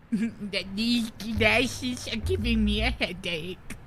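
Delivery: slow, nasal-free mocking echo; slow mocking repeat of the line; mock nerd repeat. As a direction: parrot it back slowly to tease. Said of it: "Okay, nerd".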